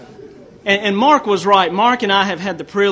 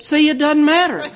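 triumphant punchline; 9 semitones higher, 4 dB louder than usual. Retold or imitated. Punchline of her put-down.

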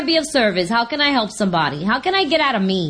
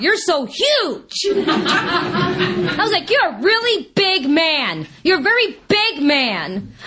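laughing tease; 5 semitones higher, much slower than usual. Retold or imitated. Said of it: "I look at him, and I go".

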